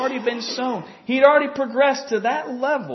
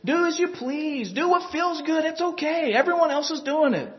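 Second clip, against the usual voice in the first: mocking worldly advice; 5 semitones higher than usual. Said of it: "They teach".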